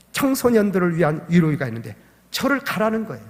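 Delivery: ordinary delivery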